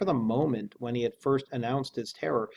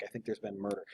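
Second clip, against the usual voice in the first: plain murder; 9 dB quieter, faster than usual. Shown as a demonstration. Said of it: "it was like".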